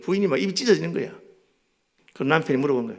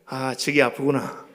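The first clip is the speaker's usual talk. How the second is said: knowing sigh; slower than usual. Retold or imitated. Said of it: "그러면 우리 사람이".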